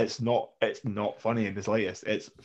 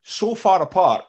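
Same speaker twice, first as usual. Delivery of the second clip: mock disbelief; 7 semitones higher, 7 dB louder, slower than usual. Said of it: "you're going".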